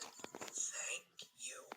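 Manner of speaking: whispered thanks from a sick creature; sick mutated engine whispering thanks; faint thanks. Acted. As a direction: barely breathe the words. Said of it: "He then said".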